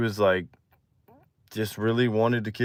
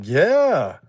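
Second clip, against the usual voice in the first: higher put-on girl voice; girl's imitated reply; 6 semitones higher, 3 dB louder than usual. Girl confirming they are dating, higher imitated voice. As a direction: lift it up as the girl.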